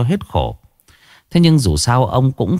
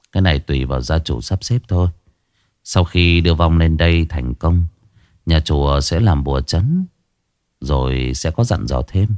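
lower, measured monk's voice; old monk; 5 semitones lower than usual. Acted. Monk advising the daughter-in-law, lower and calm. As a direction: speak as a calm old monk giving advice.

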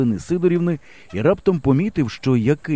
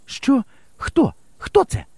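startled, high questions; flustered; 12 semitones higher, slower than usual. A narrator's reading. Teacher startled by a shout from the garden, high and flustered. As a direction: caught off guard in the dark. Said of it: "збентежений голос учительки".

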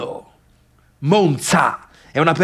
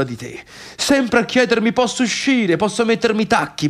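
reproachful mother; 4 semitones higher than usual. Acted. Mother's reproach voiced in monologue.

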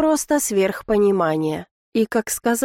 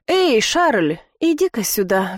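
ordinary delivery

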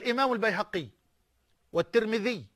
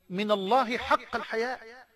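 بالراحة, ببطء وتأنٍّ على "الحياء"; يمدّ "من الله حق الحياء" في تمهّل; slowly. Shown as a demonstration. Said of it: "بالراحة كده يا مولانا". (ببطء كما طلب)

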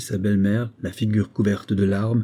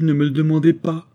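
pleading cry; 6 semitones higher, 5 dB louder than usual. A narrator's reading. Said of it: "s'écria-t-elle".

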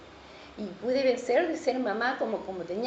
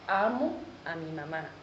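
words stuck in the throat, much softer and lower; choked and quiet; 7 semitones lower, 5 dB quieter than usual. Retold or imitated. Woman trying to forgive her mother, choked quiet voice. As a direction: force out words that refuse to come. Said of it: "Y se me trancaba acá y no podía decir".

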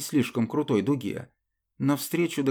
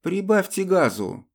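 higher, louder urgent order; commanding order; 8 semitones higher, 3 dB louder than usual. Acted. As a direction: give the order sharply. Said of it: "распорядилась я".

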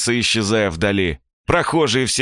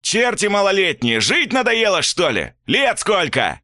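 barking shout; 11 semitones higher than usual. A narrator's reading. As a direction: snap at the boys like a furious guard. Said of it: "гаркнул второй".

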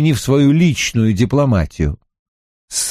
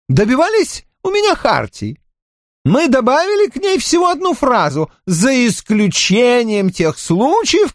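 king's voice; 11 semitones higher than usual. Acted. King Louis explains, peaceable.

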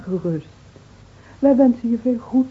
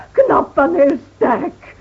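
slow proud emphasis; 6 semitones higher, 6 dB louder, much slower than usual. Acted. Trots, langzaam uitgesproken.

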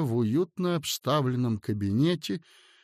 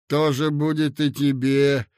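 imposing. Acted. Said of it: "внушительно сказал юноша".

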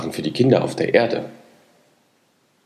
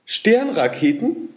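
frightened; 13 semitones higher, slower than usual. A narrator's reading. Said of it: "Der Maikäfer bekam natürlich Angst".

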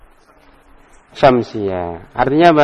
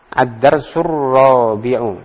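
slow title reading; much slower than usual. Shown as a demonstration. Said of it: "teacher announces lesson title".

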